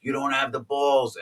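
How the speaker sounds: high-pitched retold taunt; daring buddy. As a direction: imitate a friend goading you on. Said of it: "my buddy Timmy was going".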